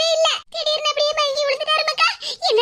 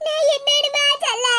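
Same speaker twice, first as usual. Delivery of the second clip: tearful. Acted. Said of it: "ஏன் இப்படி அழுதுகிட்டு இருக்கீங்க".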